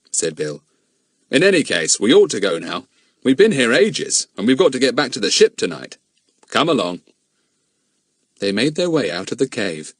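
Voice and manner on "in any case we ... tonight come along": a lightly voiced grown man, grave; steady adult man puzzling it out; a hint of a serious man; Bill's voice. Bill leads.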